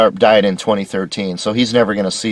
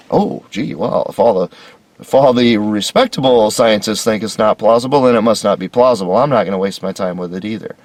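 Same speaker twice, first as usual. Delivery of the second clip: sarcastic. Retold or imitated. Sarcastic mock reasoning.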